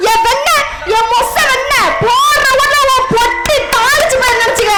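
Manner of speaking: cocky recited threats; memorised scolding. Acted. Child threatens man with comic insults, recited scolding. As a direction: deliver threats like a rehearsed chant. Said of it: "மனப்பாடம் பண்ணி பாட்டு பாடின மாதிரி".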